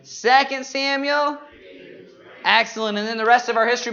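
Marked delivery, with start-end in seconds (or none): 0.0-1.4 call-and-response prompt. Shown as a demonstration. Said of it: "I'll say the book".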